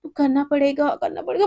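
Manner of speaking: high, fast pep talk to herself; self pep talk. Acted. Girl urging herself to keep fasting, high pep talk. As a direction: psych yourself up.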